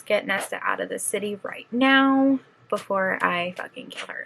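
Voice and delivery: quoting a menacing threat, trailing into a whisper; retelling the angry warrior's threat, dropping to a whisper. Retold or imitated. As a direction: hiss the end of the threat under your breath. Cassian threatens Nesta in retold scene.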